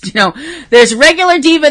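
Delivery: building up the diva levels; emphatic regular diva. Shown as a demonstration. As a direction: lean into regular as the first level. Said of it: "I have levels of diva".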